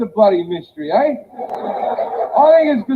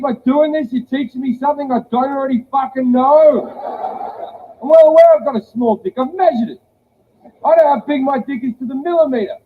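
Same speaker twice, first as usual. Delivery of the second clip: higher-pitched, hammed-up defensive protest; indignant retort; 4 semitones higher than usual. Man answering her mocking friends, indignant retort. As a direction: push the pitch up in mock indignation.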